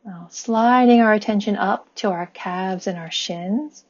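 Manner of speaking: calm body-scan guidance, long pauses between phrases; guided meditation. Acted. Guiding listeners' attention up the body with gratitude, calm meditation voice. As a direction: lead them gently and evenly, leaving room to breathe.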